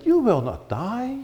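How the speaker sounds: a hint of a sly serpent; devil voice. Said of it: "He said".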